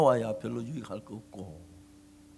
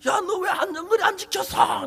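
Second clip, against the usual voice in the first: retold angry yell; 13 semitones higher, 8 dB louder than usual. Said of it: "내가 그랬어요".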